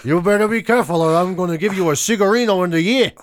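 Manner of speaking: mock gangster threat, lightly put on; movie gangster. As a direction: warn like a hammy American mobster. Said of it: "an audition for a gangster in a movie".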